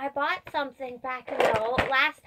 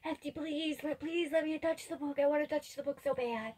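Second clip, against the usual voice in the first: hushed begging; 3 semitones higher, 8 dB quieter than usual. Acted. Player begs Hefty in character.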